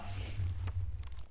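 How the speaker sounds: dry choking cough; coughing up water. Real, not acted. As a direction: still hacking from water. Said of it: "some water went down the wrong way".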